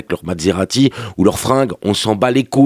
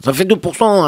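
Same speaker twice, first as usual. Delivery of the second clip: much higher-pitched repeat of the figure; emphatic repeat; 8 semitones higher than usual. Acted. Comedian insists on the share of women, high-pitched emphasis.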